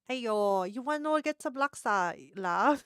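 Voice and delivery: light mock Singaporean accent; casual pickup line in a Singaporean accent. Vlogger tries a club pickup line in a Singaporean accent. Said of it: "Maybe it's like".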